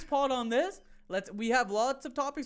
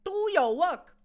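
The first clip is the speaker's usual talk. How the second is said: hint of a scolding boss; 8 semitones higher, 4 dB louder than usual. Mock boss scolding Josh.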